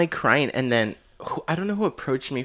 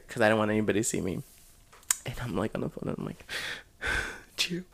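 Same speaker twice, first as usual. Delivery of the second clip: very soft secretive voice; hushed; 3 semitones lower, 6 dB quieter than usual. Retold or imitated. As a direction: keep it down so no one hears. Secret phone call in corner.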